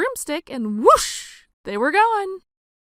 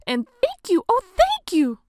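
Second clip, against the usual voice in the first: higher, heartfelt thanks; grateful cry; 10 semitones higher than usual. Acted. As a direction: thank them with relief. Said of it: "the grateful witch cried".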